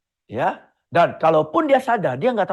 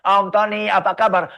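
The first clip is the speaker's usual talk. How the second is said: put-on chirpy kid voice, pitched up and louder; a small child proudly greeting an uncle; eager child greeting; 2 semitones higher, 3 dB louder than usual. Kind grüßt erneut.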